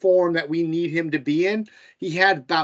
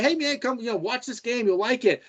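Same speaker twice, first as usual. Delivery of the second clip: higher-pitched, lightly coaxing invitation; acted coaxing; 6 semitones higher than usual. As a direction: coax a reluctant friend, pitched up. Acted invitation to a reluctant friend.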